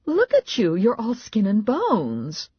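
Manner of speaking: high-pitched motherly fretting; high voice of a worried mom; fussing mother. A narrator's reading.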